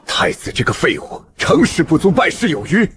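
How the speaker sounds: furious high-pitched rant rising to a yell; enraged old schemer. Acted. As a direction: rage with contempt, climbing to a murderous cry. Enraged old schemer vows to kill. (怒不可遏，越骂越高亢)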